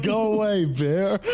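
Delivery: half-joking bear warning shout; mock shout at a bear. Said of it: "I'm like".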